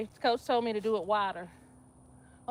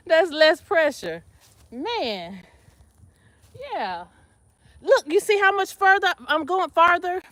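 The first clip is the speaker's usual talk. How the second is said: excited; 6 semitones higher, 5 dB louder than usual. Real, not acted. Shows off deeper squat.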